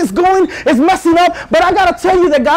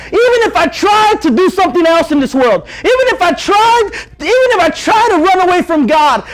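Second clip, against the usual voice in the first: fired-up preaching; 3 semitones higher than usual. Acted. Preacher urging the youth to be the answer, fired up.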